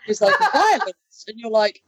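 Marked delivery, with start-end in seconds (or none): 0.5-0.9 high-pitched, exaggerated English accent; mock an actor slipping into English vowels. Mimicking an actor in a show promo, exaggerated English accent. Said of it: "He sounded so English".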